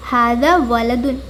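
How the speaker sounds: slow, careful Arabic answer; slow teacher reading; slow model answer. Shown as a demonstration. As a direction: read it slowly for learners. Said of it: "ഇതാരാകുന്നു?".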